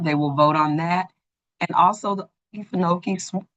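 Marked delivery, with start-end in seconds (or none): 1.6-3.4 talking through hiccups; hiccuping mid-word. Real, not acted. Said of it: "I have the hiccups".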